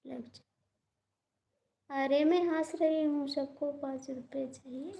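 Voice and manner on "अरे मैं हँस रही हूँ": loud insistence. Real, not acted. Insisting loudly she's laughing.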